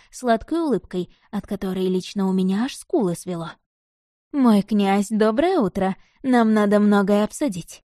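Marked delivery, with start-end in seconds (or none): 4.3-7.8 sugary chirping countess, a touch louder; chirping sweetly. Acted. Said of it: "прощебетала эта мадам".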